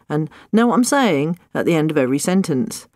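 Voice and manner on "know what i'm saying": imitating teen filler. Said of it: "people said".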